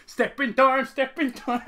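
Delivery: loud, high mock-Cockney chant; London accent. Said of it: "what your London accent sounds like".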